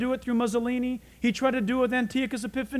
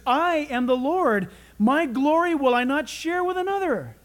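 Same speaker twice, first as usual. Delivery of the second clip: firm, raised declaration; solemn proclamation; 3 semitones higher, 4 dB louder than usual. Acted. God refusing to share his glory, proclaimed firmly. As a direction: proclaim it with weight, pitch lifting. Preacher voicing God's declaration in scripture.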